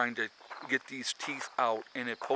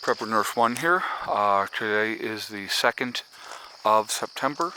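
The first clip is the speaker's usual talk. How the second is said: talking around gauze in mouth; 5 dB louder than usual. Real, not acted. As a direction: speak with gauze packed in mouth. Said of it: "I don't know if you can hear it in my voice, I have a gauze in my mouth".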